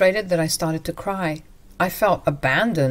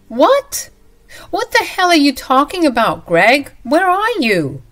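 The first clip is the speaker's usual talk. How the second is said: higher and louder, incredulous; shocked outrage; 8 semitones higher, 5 dB louder than usual. Acted. Wife stranded at the station, higher and louder in disbelief. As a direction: react like you can't believe it.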